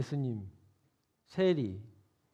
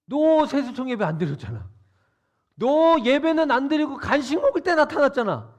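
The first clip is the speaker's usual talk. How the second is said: louder, higher accusing tone; accusing a kid who skipped service; mock scolding; 6 semitones higher, 8 dB louder than usual. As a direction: call out the latecomer. Scolding an imagined absentee.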